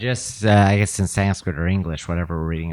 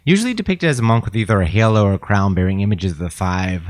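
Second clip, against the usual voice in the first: louder, measured read-aloud of an encyclopedia entry; 3 dB louder than usual. Real, not acted. Reading a Bodhisattva entry aloud to a friend, reading voice. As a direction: read it out clearly for the listener. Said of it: "in your best reading voice".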